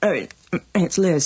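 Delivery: talking through a mouthful of lunch; words round a bite of food; mouth full. Acted. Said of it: "I've got my mouth full".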